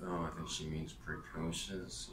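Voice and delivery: soft, slow muttered aside; a soft, slow correction muttered under the breath. Retold or imitated. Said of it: "under my breath".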